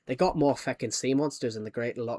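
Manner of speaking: lightly put-on Scottish accent. Shown as a demonstration. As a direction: try the line as a Scot. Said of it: "in Scottish".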